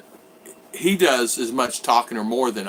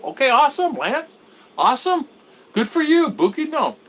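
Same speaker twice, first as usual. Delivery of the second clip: much higher, louder delighted cheer; excited; 13 semitones higher, 3 dB louder than usual. Real, not acted. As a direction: cheer him on, thrilled. Happy reaction to viewer news.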